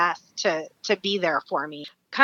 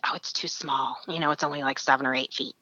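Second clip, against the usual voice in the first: dismissive guide; 5 semitones lower, 8 dB quieter than usual. Retold or imitated. Imitates unimpressed guide.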